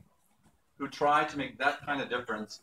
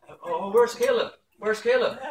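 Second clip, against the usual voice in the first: high, louder peekaboo sing-out; playful grandpa; 9 semitones higher, 5 dB louder than usual. Retold or imitated. Grandpa playing peekaboo with his grandson, high playful mock wondering. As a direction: pretend to search for a toddler.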